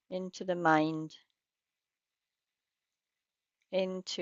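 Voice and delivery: unhurried guidance with long pauses between phrases; guided meditation. Real, not acted. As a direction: lead listeners gently into practice, leaving space after each phrase.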